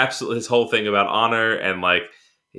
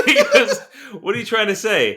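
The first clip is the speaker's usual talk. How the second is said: high-pitched, helpless giggling through the words; real laughter breaking up a retold line; laughing; 13 semitones higher than usual. Real, not acted. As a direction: try to get the quote out while cracking up. Cracking up while retelling film scene.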